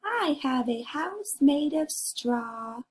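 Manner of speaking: a slow, sing-song little pig showing off his house. Acted. Teacher reads pig's line aloud.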